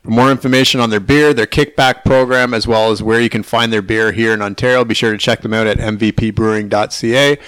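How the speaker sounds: upbeat scripted ad read; sponsor ad read. Acted. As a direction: sell the lager like a radio spot. Sponsor read for MVP beer.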